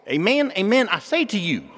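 put-on loud, high-pitched country hick accent; Jesus with hick accent. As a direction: declare it in a mock rural twang. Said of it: "think that Jesus sounded like this".

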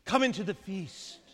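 a father's earnest plea, rising and falling; pleading father. Acted. Father begging his angry son to join the feast, pleading. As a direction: beg the son to come in, gently then urgently. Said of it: "came out and pleaded with him".

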